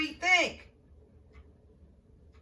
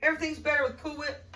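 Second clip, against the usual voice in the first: commercial slogan; 4 semitones higher, faster than usual. Retold or imitated. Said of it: "That sounds like a commercial to me".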